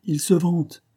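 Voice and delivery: mildly acerbic narrated jibe; sour. A narrator's reading. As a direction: say it with some bitterness. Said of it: "dit-il avec aigreur".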